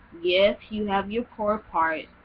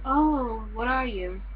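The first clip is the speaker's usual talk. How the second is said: a higher, louder "oh" into a prying question; a girl quizzing her about her origins; mock nosy question; 5 semitones higher, 3 dB louder, slower than usual. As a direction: imitate a curious stranger, lightly. A girl's nosy question retold.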